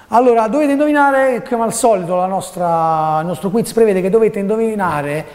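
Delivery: theatrical quiz host announcing; host the quiz with flair; showy game show host. Pretend.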